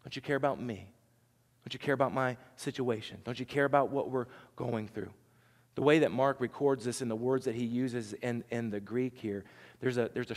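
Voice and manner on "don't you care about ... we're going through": heart cry. Retold or imitated. A hurting heart asking Jesus, quietly and sorrowfully. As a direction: let the hurt leak out quietly. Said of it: "the heart begins to cry out".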